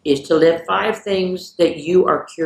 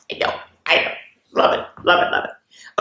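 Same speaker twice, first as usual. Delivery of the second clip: whisper. Real, not acted. Delighted aside after joke.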